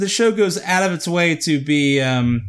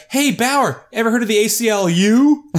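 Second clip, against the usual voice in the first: higher, mock-cheery jab; mocking cop taunt; 5 semitones higher than usual. Imagined cop needling Bauer about civil rights, higher mock taunt. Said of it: "There's never like".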